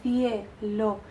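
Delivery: "cielo" as two slow syllables, cie-lo; diphthong in cielo. Shown as a demonstration. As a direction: hold IE together in "cielo", then LO. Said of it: "no cielo, no, cielo". ("cielo" en dos sílabas lentas, cie-lo)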